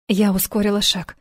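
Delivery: plain reading voice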